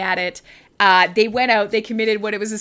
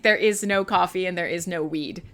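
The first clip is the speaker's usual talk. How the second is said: mock horror trailer; 5 semitones lower than usual. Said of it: "A Canadian Horror Story auto would be like".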